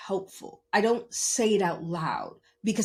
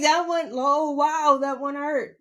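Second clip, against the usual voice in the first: laughing ouch; 7 semitones higher, 4 dB louder than usual. Retold or imitated. Repeats the quote, laughing.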